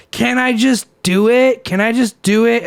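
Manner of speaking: imitated wheedling plea; retold pleading. Girl begging to charge phone.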